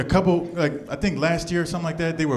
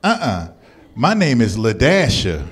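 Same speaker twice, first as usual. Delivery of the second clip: sassy woman correcting; 4 semitones lower, 5 dB louder, slower than usual. Retold or imitated.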